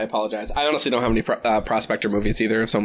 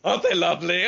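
fussy dainty voice; 5 semitones higher than usual. Acted. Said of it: "Remind me to be that character".

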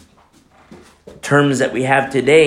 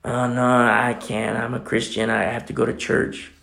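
timid refusal; 4 semitones lower, 6 dB quieter than usual. Retold or imitated. Timid Christian voiced, quiet.

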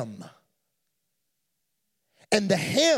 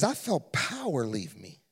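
low, soft, awed; hushed Jesus; 8 semitones lower, 5 dB quieter than usual. Acted. Jesus telling the crowd power left him, hushed. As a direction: let it drop to near hush. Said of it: "And he says".

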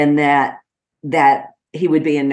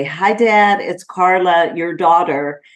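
bright, higher greeting to an ailing father; cheerful greeting to dad; 3 semitones higher than usual. Retold or imitated. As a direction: greet him brightly so he knows you. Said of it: "I would address him every time and say".

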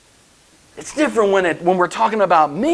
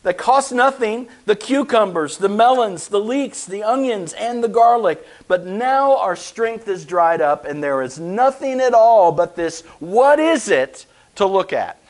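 whiny voice; 3 semitones higher than usual. Acted. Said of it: "said in a whiny voice probably".

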